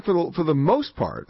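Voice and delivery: most leaned on a little; weight on the word most, not all; stress on most. Real, not acted. Host telling a caller Baghdad is mostly stable, stress on most. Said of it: "I emphasize the word most".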